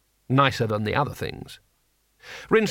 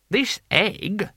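high-pitched complaint; indignant customer; 8 semitones higher than usual. Acted. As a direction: protest in a high, offended voice. Customer complains about the egg.

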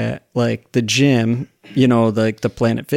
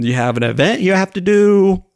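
high, mock-innocent coach's query; teasing question; 8 semitones higher, 4 dB louder than usual. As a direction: imitate a coach playfully pressing the point. Coach's follow-up teasing question, retold.

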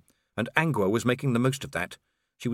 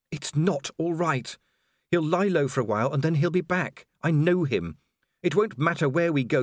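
fearful and sure of doom; distraught; 5 semitones higher than usual. A narrator's reading. Angua distraught.

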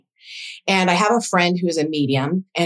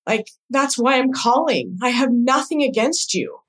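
higher-pitched, heartfelt insistence; earnest reassurance; 6 semitones higher than usual. Retold or imitated. Daughter telling her crying mom she is forgiven, earnest.

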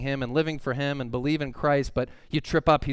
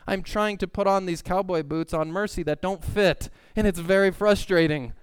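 pleading frustration; 6 semitones higher, 3 dB louder than usual. Retold or imitated. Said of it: "And I'm like".

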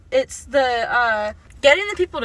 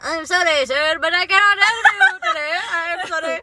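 stiff robot customer service voice; 4 semitones higher than usual. Pretend. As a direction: read it like an automated robot. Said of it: "sound like a robot".

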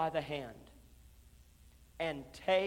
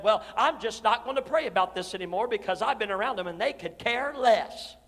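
huffy complaint; 5 dB louder than usual. Retold or imitated. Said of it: "gotten huffy and been out of shape and said".

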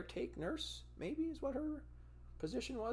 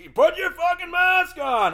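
much higher and louder furious command; angry shouted order; 15 dB louder than usual. Retold or imitated. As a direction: imitate the nurse losing his temper. Nurse arguing over mask.

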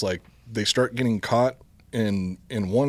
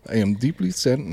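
attempted German accent; 2 semitones higher than usual. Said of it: "I can't do a German accent".

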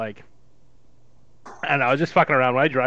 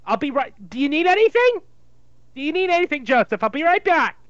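put-on higher, fussing Jewish mother accent; 5 semitones higher than usual. Jewish mother fusses over her son before going to the store, in a higher Jewish accent. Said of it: "a Jewish mother".

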